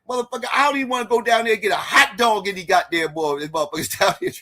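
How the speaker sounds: high-pitched mock voice of the debater; squeaky caricature of a ranting guy; mimicking Rio. Moderator mimics Rio's funny rebuttal line in a high voice. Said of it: "He said".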